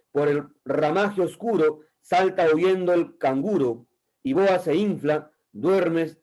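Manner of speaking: measured verse reading, paused at phrase ends; lightly declaimed poetry for a class; poem recitation. Acted. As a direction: declaim each line of verse deliberately.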